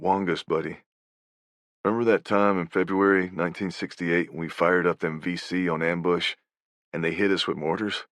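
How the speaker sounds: put-on quiet, intimate call to an old buddy; softly recalling. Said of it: "and say to him".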